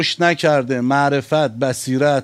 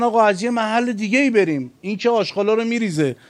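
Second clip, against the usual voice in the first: pitched-up voice of followers; higher, acted appeal; urging suggestion; 6 semitones higher, faster than usual. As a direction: appeal to the master, voice raised high. Companions propose avoiding the offender.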